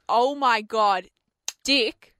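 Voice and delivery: slow excited oh my God, cut off on Dick; gush, then stop mid-name; starstruck exclaim. Retold or imitated. Fan greeting the wrong man, slow excited then cut off. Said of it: "because I have said".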